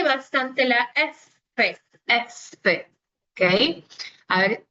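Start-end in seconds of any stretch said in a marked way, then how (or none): 0.7-2.9 f drawn out slowly; marked f. Shown as a demonstration. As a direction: hold the f sound long. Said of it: "estoy marcando bastante".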